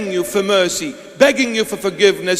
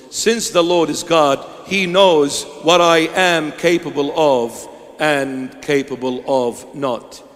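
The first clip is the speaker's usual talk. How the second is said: ordinary delivery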